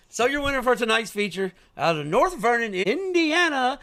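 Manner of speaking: sprint car announcer. Shown as a demonstration. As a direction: call it like the PA at the dirt track. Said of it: "Okay, sprint car announcer".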